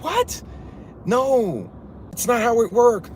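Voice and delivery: high-pitched squeak of disbelief; incredulous protest. Real, not acted. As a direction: object in a high, exasperated voice. Rejects absurd idea in disbelief.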